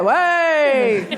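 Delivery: imitated audience whoop; mock cheer. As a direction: mimic a crowd hollering, held long.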